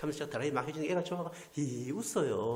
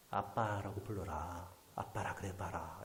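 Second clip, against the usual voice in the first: soft and slow, coaxing; gentle fatherly plea; 5 semitones lower, 8 dB quieter, slower than usual. Retold or imitated. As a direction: invite the child tenderly. Pastor asks orphan to call him dad. (부드럽고 느리게 다정하게)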